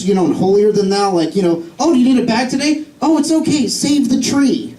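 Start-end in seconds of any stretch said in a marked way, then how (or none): 1.8-4.7 higher-pitched sanctimonious do-gooder; mock righteous. Righteous person preaching to a bag customer, mock sanctimonious. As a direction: imitate someone holier than thou, drawing out the last words. Mimicking holier-than-thou people.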